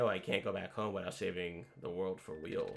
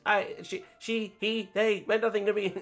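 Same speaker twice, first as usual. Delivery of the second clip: laughing, higher and louder villain confession; voiced character cracking, louder and higher; manic confession; 12 semitones higher, 10 dB louder than usual. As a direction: spill it with unhinged glee.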